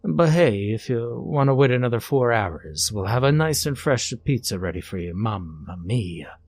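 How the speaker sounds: a cheesy mock Italian pizza man; joking Italian accent for the pizza prank; fake Italian accent. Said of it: "with a fake Italian accent".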